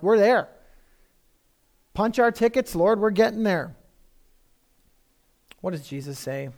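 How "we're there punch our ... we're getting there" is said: eager, raised voice; hammed-up eagerness to be used; eager disciples. Disciples ask the Lord to punch their tickets, eagerly. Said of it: "They're like".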